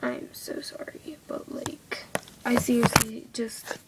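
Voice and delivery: irritated whisper. Real, not acted. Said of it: "I'm getting irritated".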